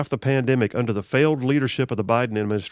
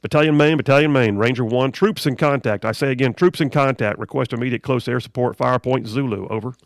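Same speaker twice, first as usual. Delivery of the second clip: crackly military radio. Retold or imitated. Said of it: "I mean, picture it".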